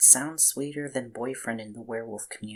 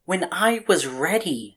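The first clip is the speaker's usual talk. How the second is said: loud, higher defiant snap; angry retort; 6 semitones higher, 7 dB louder than usual. Acted. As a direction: throw it back at him hard. Arguing back at master.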